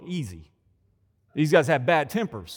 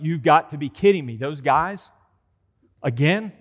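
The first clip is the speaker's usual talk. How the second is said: loud, exasperated disbelief; mock-outraged disciples; indignant outburst; 7 dB louder than usual. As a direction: scoff at the two brothers.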